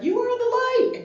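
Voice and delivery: high strained yell of you are the light; mock shouted affirmation. Retelling her hard week, shouting at herself. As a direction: force the affirmation out at a scream. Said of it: "I was trying to be like".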